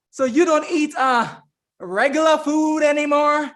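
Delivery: put-on Southern accent. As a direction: ask it high with a touch of Southern accent. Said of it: "she had that Southern accent".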